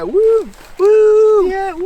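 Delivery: high loud triumphant whoops; cheering. Real, not acted. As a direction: celebrate the victory. Celebrating conquering the ridge.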